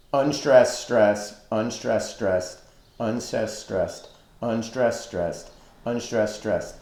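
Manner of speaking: "unstressed, stressed" counted out in even pairs, sinking in pitch; each "stressed" dropping below its "unstressed"; repeating metrical pattern. Shown as a demonstration. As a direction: recite "unstressed, stressed" like a steady beat. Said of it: "there is a repeating pattern".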